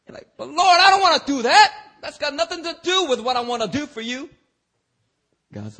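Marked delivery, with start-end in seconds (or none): 0.4-4.3 high, loud laughing protest; laughing whine. Retold or imitated. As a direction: whine at God through laughter. Whining believer, laughing.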